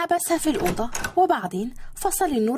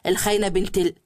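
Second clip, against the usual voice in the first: angry outburst; 7 semitones lower than usual. A narrator's reading. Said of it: "وزعق فيها بنرفزة".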